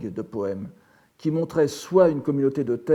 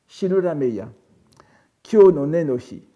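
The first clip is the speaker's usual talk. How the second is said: louder, measured poem reading; reciting; 7 dB louder than usual. Shown as a demonstration. Professor reads the poem to the class, reciting. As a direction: recite the Japanese verse aloud, firmly projected. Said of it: "je vais d'abord le, vous, vous, vous le lire".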